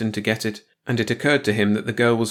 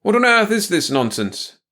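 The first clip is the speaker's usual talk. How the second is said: high, outraged demand; lightly voiced indignant doctor; a raised, indignant question; clear indignant question; 11 semitones higher, 4 dB louder than usual. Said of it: "Ankers asked clearly".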